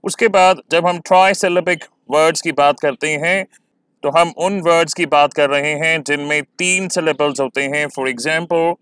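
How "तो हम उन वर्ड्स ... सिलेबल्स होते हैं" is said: ordinary delivery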